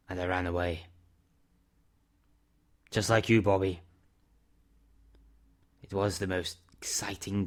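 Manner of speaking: a hint of a weary man owning up to his past; subdued confession; Mister Summers. Narrator voices Mister Summers confessing.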